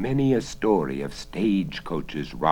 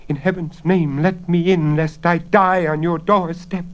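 put-on feeble old woman; 12 semitones higher, 9 dB louder than usual. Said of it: "a feeble voice whispered".

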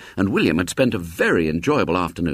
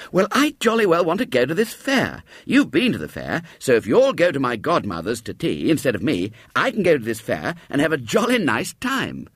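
put-on higher boyish voice, pleading; eager boy; 4 semitones higher than usual. Boy explaining the swap to William, eager and higher. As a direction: talk him into it.

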